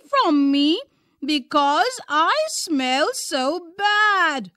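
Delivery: high, small, sorrowful creature; a lonely little animal pleading; sad little skunk. A narrator's reading. Roger Skunk complaining to the owl, small and sad.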